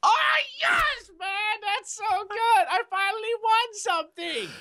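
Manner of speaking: high, triumphant shout easing off; excited celebration. Real, not acted. Player hears he finally won, excited triumphant cry. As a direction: burst out high, then settle into delight. Celebrates winning the pink vote.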